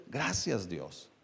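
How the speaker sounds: soft, low prayer of gratitude; hushed thanks. Acted. Believer thanking God for simple things, hushed gratitude. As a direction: let the thanks sink away very quietly.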